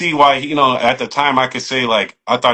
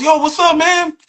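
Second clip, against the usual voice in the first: much higher, upbeat yo greeting; cool guy greeting. Retold or imitated. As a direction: toss it off like a friendly dude. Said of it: "He goes".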